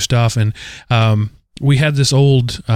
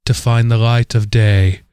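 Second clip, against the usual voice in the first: posh English narrator; slower than usual. Retold or imitated. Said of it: "posh English woman saying".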